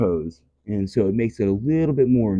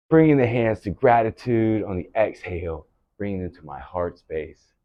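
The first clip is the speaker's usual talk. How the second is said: closing gratitude; 3 semitones lower than usual. Acted. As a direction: wind the class down gently. Closing gratitude at end of class.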